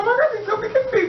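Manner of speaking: very high squealed panic with a laugh; hammed-up frantic squeal; mock hysterics. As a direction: imitate someone going crazy with fear. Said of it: "She's going crazy again".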